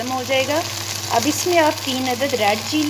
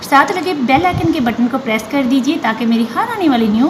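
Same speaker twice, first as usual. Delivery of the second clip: louder sign-off request to viewers; loud outro plea; 2 semitones higher, 9 dB louder than usual. Real, not acted. Host urging viewers to press the bell, loudly. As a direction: call it out to subscribers.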